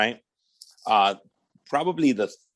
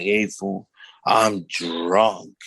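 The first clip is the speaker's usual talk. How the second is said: low, beaten-down mumble; defeated; 3 semitones lower, much slower than usual. Retold or imitated.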